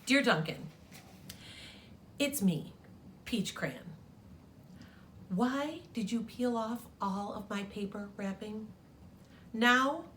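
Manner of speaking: hammed-up bashful crayon plea; Peach Crayon. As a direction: squeak like a crayon caught without clothes. Peach Crayon's embarrassed letter voiced.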